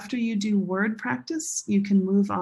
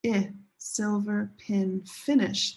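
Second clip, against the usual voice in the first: slow color-word drill; slower than usual. Shown as a demonstration. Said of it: "Now this is a secondary stress".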